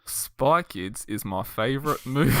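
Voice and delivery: slow attempt at a Kiwi accent. Shown as a demonstration. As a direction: try a New Zealand accent, slowly. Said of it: "in a Kiwi accent".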